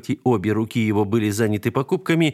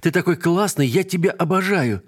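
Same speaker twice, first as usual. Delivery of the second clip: высокий детский восторг; радостно, по-детски; девочка в восторге; 9 semitones higher than usual. Acted. Девочка радостно кричит дяде. (детский восторг)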